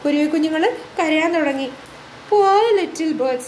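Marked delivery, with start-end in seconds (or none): 2.3-3.4 pitying tree. Acted. Tree pitying the baby birds, mildly distressed. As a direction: worry for the chicks. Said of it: "The tree thought".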